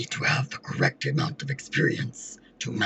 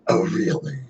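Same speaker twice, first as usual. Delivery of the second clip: possessed; 5 semitones lower, 5 dB louder than usual. Acted. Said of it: "do the demon voice".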